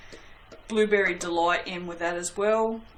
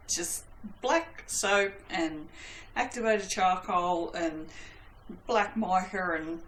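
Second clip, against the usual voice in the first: stoner voice; slower than usual. Real, not acted. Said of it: "I sound like a stoner".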